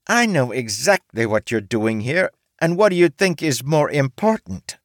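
T putting him in his place; stern orc woman. A narrator's reading. T retorts.

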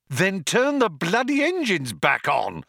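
high-pitched, angry bawl. A narrator's reading. Zaphod ordering the computer to restart engines, bawling. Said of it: "bawled Zaphod".

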